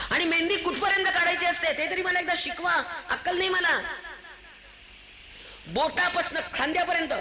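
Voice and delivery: high-pitched, impassioned sermon scolding; indignant preaching. Real, not acted. (संतापलेल्या सुरातलं उंच आवाजातलं प्रवचन)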